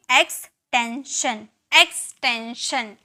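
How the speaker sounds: एक्सटेंशन drawn out slowly, syllable by syllable; slow model word. Shown as a demonstration. Teacher models एक्सटेंशन slowly for students. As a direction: say एक्सटेंशन slowly so pupils copy it. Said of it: "तो इसे हम क्या बोलेंगे?".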